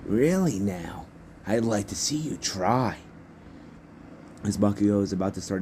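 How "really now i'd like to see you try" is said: slow, drawn-out "really now"; mock-doubtful dare to a rival; taunting challenge. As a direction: call the bluff, taking your time. Izuku taunts his rival back.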